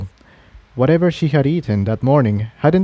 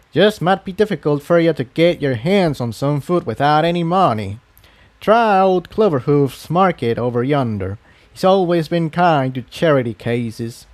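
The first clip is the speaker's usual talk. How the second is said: lightly voiced elderly country pony, a bit higher; folksy old pony giving friendly advice; old earth pony; 3 semitones higher than usual. Old pony pointing a refugee to food, lightly voiced.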